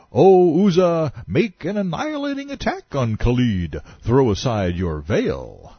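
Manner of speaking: high, declamatory call to a goddess; dramatic shout. A narrator's reading. Temple keeper calling on his idol, shouted. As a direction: cry it out high, slowing at the end. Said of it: "and shouted".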